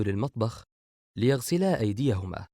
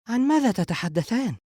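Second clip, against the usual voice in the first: questioning; 11 semitones higher, 4 dB louder than usual. A narrator's reading. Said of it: "سارة بتساؤل".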